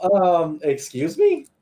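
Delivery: playfully snarky challenge; mock-incredulous comeback. Mock-polite comeback to the teacher.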